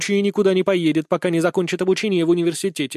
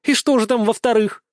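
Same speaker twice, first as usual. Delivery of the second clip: snorting scorn; 7 semitones higher, 4 dB louder than usual. A narrator's reading. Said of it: "фыркнула старшая дочь".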